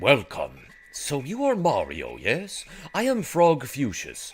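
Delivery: put-on normal old man voice. Voicing a character who greets Mario, normal old man voice. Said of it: "I just give him a normal old man voice".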